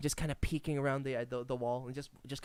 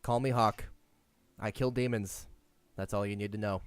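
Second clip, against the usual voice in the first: gruff demon hunter; 8 semitones lower than usual. Acted. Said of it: "And he says".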